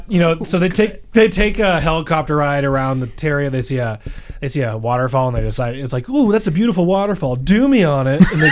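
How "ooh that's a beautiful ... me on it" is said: higher gushing then a shout; mock swooning. Mocking couple at waterfall.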